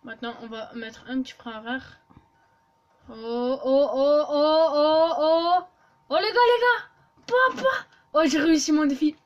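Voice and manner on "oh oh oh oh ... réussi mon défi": excited. Real, not acted. Landing the stunt live.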